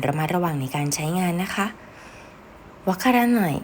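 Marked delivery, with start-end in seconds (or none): 2.9-3.6 sharp, annoyed and louder; irritated "I don't get it". Shown as a demonstration. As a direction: snap it out like you're fed up. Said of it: "คำว่าไม่เข้าใจเนี่ย มันก็จะเป็นแบบหงุดหงิด".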